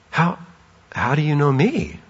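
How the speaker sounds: breathless gasp, then awed wonder; stunned to be known by a stranger; amazed gasp. Shown as a demonstration. Nathanael realizing Jesus truly knows him, breathless awe. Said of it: "Or it could have been like".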